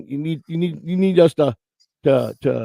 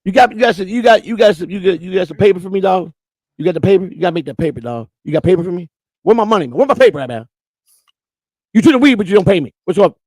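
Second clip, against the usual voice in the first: mock street dealer; 2 semitones higher than usual. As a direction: lean on him for the paper, dog. Playing a dealer demanding money.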